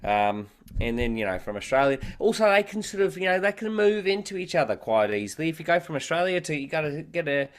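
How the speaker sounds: Australian accent gliding toward clipped. Shown as a demonstration. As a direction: slide into an Aussie voice, lifting every line. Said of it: "But then I wanted Australian".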